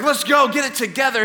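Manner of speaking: brisk acted telling-off; Gordon Ramsay. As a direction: chivvy a panicking man into shape. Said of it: "I went all Gordon Ramsay on him".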